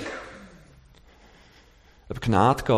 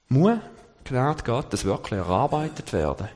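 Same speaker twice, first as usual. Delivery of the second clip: rhetorical challenge. Acted. Rhetorical question in sermon.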